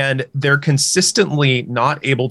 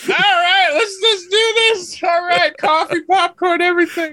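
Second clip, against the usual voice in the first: hammed-up hype. Kicking off the bit for the hosts with hammed-up excitement. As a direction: play an over-excited fan settling in. Hyping up a mock show start.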